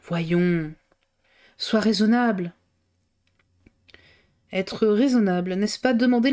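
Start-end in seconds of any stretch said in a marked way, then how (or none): 0.0-2.5 gentler. A narrator's reading. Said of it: "avec plus de douceur".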